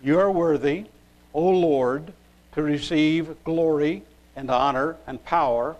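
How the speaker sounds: firm, measured verse reading; scripture reading. Acted. Preacher reading from Revelation to the congregation, scripture reading. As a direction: proclaim the verse in separate, deliberate phrases.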